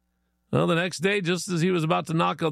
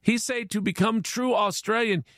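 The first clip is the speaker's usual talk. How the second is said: higher-pitched broken English, mock Chinese accent; 5 semitones higher than usual. Chinese guy cites his travel agent, mock Chinese accent. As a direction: insist in a put-on Chinese accent. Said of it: "Chinese guy says".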